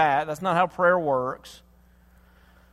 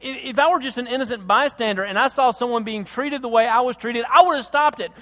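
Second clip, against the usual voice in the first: retold anger, building louder and higher; acted indignant protest to God; mounting anger; 5 semitones higher, 4 dB louder than usual. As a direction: build toward an outburst. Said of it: "I get mad and I say".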